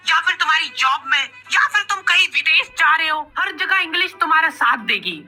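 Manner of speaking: upbeat app promo delivered with punch; sponsor ad read. Acted. Pitching a language app to viewers, emphatic ad read.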